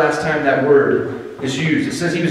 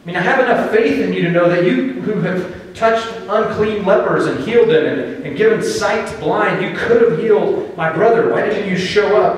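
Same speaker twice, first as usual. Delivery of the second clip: raised, pleading accusation from a grieving sister; accusing plea; 4 semitones higher than usual. Retold or imitated. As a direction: lift the pitch and press the blame onto Jesus. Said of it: "starts out with somewhat of an accusation".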